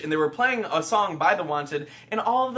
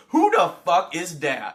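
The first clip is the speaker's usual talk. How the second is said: gruff grunt; 2 semitones lower, 5 dB louder, slower than usual. Retold or imitated. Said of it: "big man walks by and grunts".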